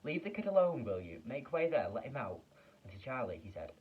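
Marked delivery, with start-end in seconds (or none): 0.0-2.4 loud, high commanding shout. Acted. Shopkeeper shouting the crowd back from Charlie, loud and firm. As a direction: clear the crowd off the boy. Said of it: "the fat shopkeeper shouted".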